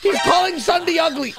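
high, scandalised exclamation; indignant outburst. Acted. Gamer defending friend Sunday from mockery, indignant outburst. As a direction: cry out in mock offence.

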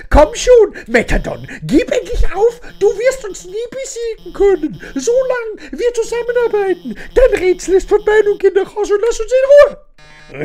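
high, brave but nervous stand; defiant scientist. Acted. Streamer voices Alphys telling Mettaton to give up, high and defiant. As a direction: puff up bravely against the robot.

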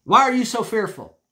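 loud, stern rebuke; firm, scolding question; Jesus sternly rebuking the disciples. Retold or imitated. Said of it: "I think he was very stern here".

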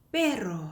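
"perro" with a trilled rr; Spanish trill inside "perro"; rolled r. Shown as a demonstration. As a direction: roll the double r in "perro". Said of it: "굴리는 발음인데".

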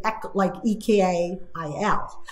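"E K I L", like spelled letter by letter in reverse; backwards speech. Shown as a demonstration. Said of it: "if I said, "Like".

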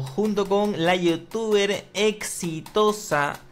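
game show announcer. Acted. Host presenting a guest on his quiz show, grand announcer voice.

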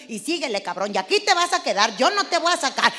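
a mock angry mother's yell; scolding mother. Mother yelling at the kid to keep going. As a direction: yell it like a fed-up mom.

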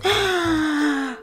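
long soft gasp of awe; delighted gasp. Real, not acted. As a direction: suck in breath, amazed. Delighted at new armor.

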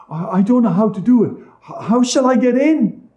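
put-on high, stammering girl, quick at first; helpless little Gretel. A narrator's reading. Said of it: "and she said".

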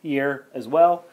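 slow, stiff robot voice. Real, not acted. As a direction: deliver it like a droning robot. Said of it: "I don't know why I'm talking like a robot".

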